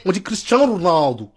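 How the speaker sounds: "Cristiano Ronaldo" run together with Portuguese sounds; mock Portuguese accent. Portuguese fans correcting the name, mock Portuguese accent. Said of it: "Si les Portugais".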